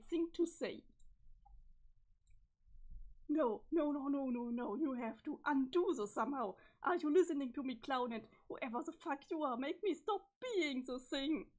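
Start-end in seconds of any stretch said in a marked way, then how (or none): 3.3-11.5 loud, frantic pleading at the clown; voiced character losing it and yelling for help; panicked screaming. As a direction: scream it, begging someone to undo it. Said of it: "I'm sorry for screaming".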